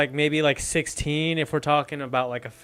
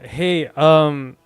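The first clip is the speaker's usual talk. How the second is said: loud call; 6 dB louder than usual. Acted. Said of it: "I say to Elandril".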